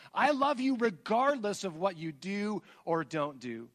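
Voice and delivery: booming divine proclamation, slow and high; God's voice. Acted. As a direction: thunder it out as God declaring his choice. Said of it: "God says".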